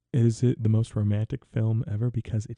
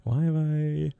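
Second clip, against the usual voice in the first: mock anguished wail; 6 semitones higher than usual. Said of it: "And I'm like".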